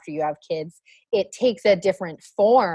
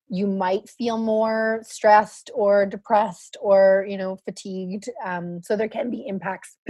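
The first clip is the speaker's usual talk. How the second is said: hoarse, fading voice; straining a voice that's going; losing voice; slower than usual. Real, not acted. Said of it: "I'm losing my voice a bit".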